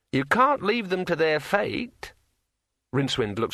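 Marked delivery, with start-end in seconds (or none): 0.1-2.1 high, slow, eerie ringing voice; like a finger round a wine glass rim; ringing metallic sword voice. A narrator's reading. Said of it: "in a voice like the sound of a finger dragged".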